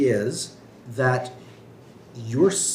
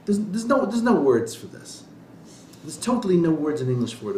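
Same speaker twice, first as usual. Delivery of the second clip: Rabbi Tat imitation; 5 semitones higher than usual. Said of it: "I can't do his accent".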